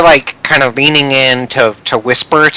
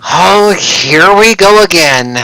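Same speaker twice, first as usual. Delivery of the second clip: exasperated; 4 semitones higher, slower than usual. Acted. Brandy reacts to a compliment.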